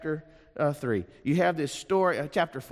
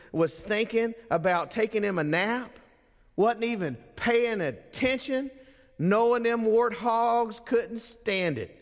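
drawling folksy storyteller reading; reading Southern novel. Acted. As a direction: read it like an old Southern yarn-spinner. I'd like to read you.

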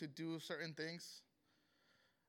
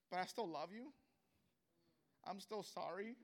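soft, fading prayer, close to tears; tearful whispered prayer; 4 dB quieter than usual. Retold or imitated. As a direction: pray quietly as the hope drains out. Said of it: "And I remember I just cried".

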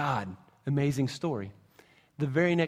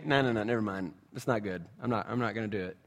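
lower, softer voicing of God; hushed mock voice; 7 semitones lower, 6 dB quieter, faster than usual. Pastor voicing God's refusal, lower and hushed. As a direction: drop low and hushed as a mock quote.

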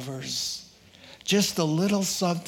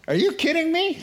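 much higher, delighted disbelief; amazed; 11 semitones higher, 3 dB louder, faster than usual. Acted. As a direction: throw it up high in joyful amazement. Jesus amazed at her faith.

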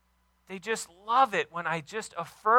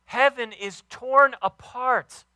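slow, loud proclamation; proclaimed; 5 semitones higher, 7 dB louder, slower than usual. Acted. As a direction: let it ring out slowly. Preaching climax.

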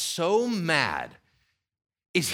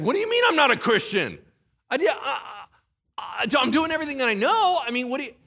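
higher, fast, flustered protest; panicked new believer; 6 semitones higher than usual. Retold or imitated. A new believer told he's not Christian, panicking high and fast. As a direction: stammer out a frightened defense.

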